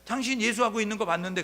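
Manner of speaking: high, startled pointing-out; surprised accuser. Retold or imitated. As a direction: catch him out with surprise. Servant girl accuses Peter. (놀라며 알아보는 하녀 목소리)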